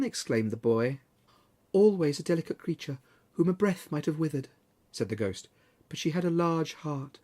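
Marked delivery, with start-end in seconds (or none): 1.7-7.2 softer, gently spoken spirit; a quiet, tender spirit remembering; soft ghost. Acted. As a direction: ghost speaking gently of Scrooge's sister. Ghost speaks.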